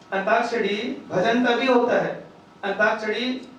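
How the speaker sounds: slow down to drive it home; deliberate emphatic repeat. Shown as a demonstration. Repeats the point to stress it.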